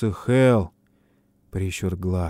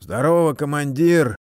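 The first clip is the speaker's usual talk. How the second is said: distant, as if from a well; voice from a barrel; 6 semitones higher, 4 dB louder than usual. A narrator's reading. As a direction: sound far off, like inside a barrel. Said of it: "Голос далёк, будто из бочки или колодца".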